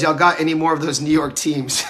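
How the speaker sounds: a light twitchy crackhead impression; Dave Chappelle crackhead voice. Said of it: "Dave Chappelle crackhead voice".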